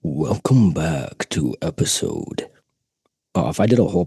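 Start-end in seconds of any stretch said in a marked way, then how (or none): 0.0-2.5 lower, slow announcer voice; deep slow voice. Shown as a demonstration. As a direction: drop it low and drag it. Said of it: "Different voices".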